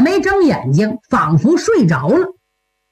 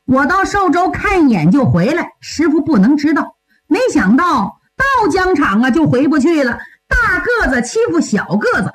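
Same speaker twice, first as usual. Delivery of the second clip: lightly voiced young disciple, higher pitch; 小徒弟诉说缘由; 4 semitones higher than usual. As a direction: explain yourself eagerly to your senior, pitched up. (小徒弟略高声地向师兄解释)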